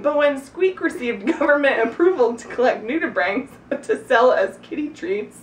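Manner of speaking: giggling through the words; reading while laughing. Real, not acted. Cracks up reading own story.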